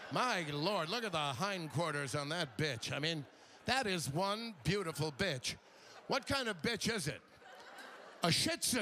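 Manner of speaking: lightly voiced stuffy dog-show commentator; a hint of pompous admiration. Comic imitates Westminster Kennel Show commentators, mock pompous voice. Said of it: "pompous guy and a woman".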